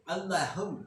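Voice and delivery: put-on slow Arabic prayer in a light Turkish accent; lightly imitated Turkish accent on the prayer. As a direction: recite it as a Turk reading Arabic, slowly. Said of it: "Kayak orang Turki ngomong Arab lucu kan".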